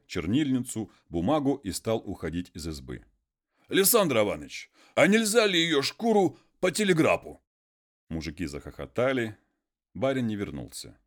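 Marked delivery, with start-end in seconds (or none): 3.7-7.4 high, loud naive plea; hopeful peasant. Acted. Konstantin calls after the leaving master, high and hopeful. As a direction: ask it in all innocence.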